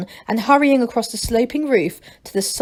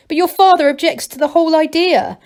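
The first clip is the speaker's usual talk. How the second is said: a hint of a worried gnome leader; lightly raised, earnest; Masklin; 7 semitones higher, 6 dB louder than usual. A narrator's reading. Masklin cautioning Angelo about his father, lightly voiced.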